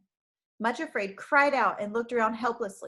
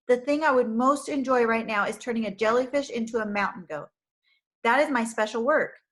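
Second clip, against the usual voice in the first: joyful; 2 semitones higher, 5 dB louder than usual. Acted. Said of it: "with great joy in his face".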